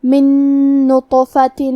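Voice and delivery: من نطفۃ, noon merged into one nasal doubled noon; idgham with ghunna. Shown as a demonstration. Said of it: "نون ساکن کو دوسرے نون میں ملا کے". (من نطفۃ میں ادغام بغنہ)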